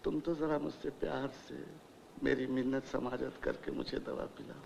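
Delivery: soft, wheedling appeal; soft coaxing request. Acted. Old patient asking secretary for affectionate coaxing, soft. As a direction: ask softly to be pampered.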